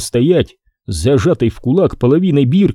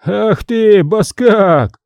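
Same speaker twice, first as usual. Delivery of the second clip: angry insult; 8 semitones higher, much slower than usual. A narrator's reading. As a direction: hurl the insult as you lunge. Vaska lunges at scribe.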